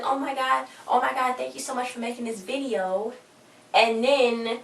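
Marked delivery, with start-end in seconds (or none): 0.0-3.1 high-pitched gushing imitation of an excited fan; mock fangirl gushing. Fan thanking her idols for a video, mock gushing. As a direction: gush thanks like an overexcited fan.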